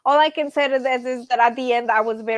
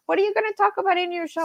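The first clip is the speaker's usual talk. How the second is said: mock daughter; 8 semitones higher, much faster than usual. Daughter quoted in a phone call.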